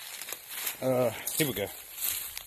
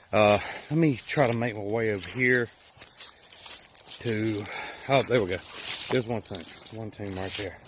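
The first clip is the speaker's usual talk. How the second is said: winded after a climb; breathless, catching breath between phrases. Real, not acted. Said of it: "Sorry I'm out of breath".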